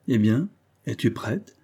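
mildly cheerful, drawn-out question; cheerful exclamation. Acted. Husband to wife, is she ready for lunch, mildly joyful. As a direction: ask it with a touch of joy. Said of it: "s'écria joyeusement Valeuse".

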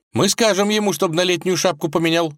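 put-on high, upset young wife's voice; a princess pleading for her father, sniffling; tearful tsarevna. A narrator's reading. Vasilisa argues with husband Vanya, high and upset.

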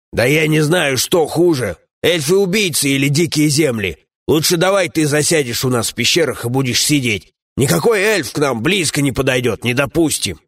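gruff dwarf companion. Acted.

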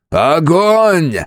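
high, loud command to fire; yelling. A narrator's reading. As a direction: bark the order at full volume. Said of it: "проорал Кромвель".

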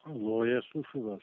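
tipsy, slurring into the phone. Real, not acted. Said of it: "пьяненький".

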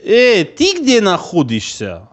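slow, taunting parroting of the question; mocking echo. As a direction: drag it out to mock him.

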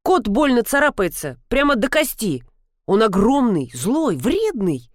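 ordinary delivery, nothing marked

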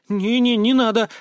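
genuinely scared. Acted. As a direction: blurt it out, scared at the idea. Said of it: "неподдельно испугалась она". (испуганно, высоко и громче)

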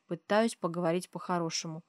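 ordinary delivery

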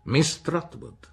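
name yourself like a formal decree; stiff introduction. A narrator's reading. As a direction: Miss Betsy introduces herself slowly. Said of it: "disse la nuova venuta".

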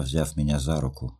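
ordinary delivery

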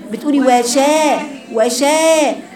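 وشا opened only at the front; wrong front-only sha. Shown as a demonstration. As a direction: imitate the student's shallow شا. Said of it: "فتحة من قدام فقط". (وشا بفتح أمامي فقط)

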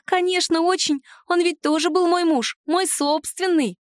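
high, savouring reply, slowing at the end; relishing. Acted. House spirit proudly recalls her own husband, high and relishing. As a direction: savour the words, high and pleased. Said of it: "с наслаждением добавила она".

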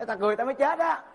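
excited retelling. Acted. Prisoner explains to his cellmate why he laughed, high and gleeful. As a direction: tell him the punchline laughing at yourself. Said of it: "Anh nói rằng".

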